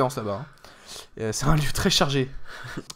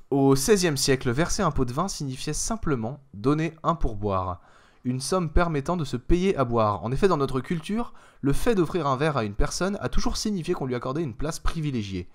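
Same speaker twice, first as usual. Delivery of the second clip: Gilles Howell. Acted. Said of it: "je vais prendre ma voix de, de speaker, de Gilles Howell".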